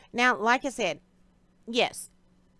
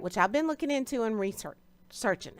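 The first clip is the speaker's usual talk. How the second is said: talking through hiccups; hiccupping between words; 3 semitones higher than usual. Real, not acted. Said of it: "I'm getting the hiccups".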